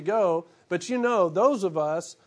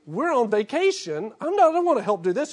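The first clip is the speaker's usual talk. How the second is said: put-on higher, quick whining child; whiny kid; 4 semitones higher than usual. Preacher imitates his kids whining about unpacking, mock whine. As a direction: whine like a kid who won't help.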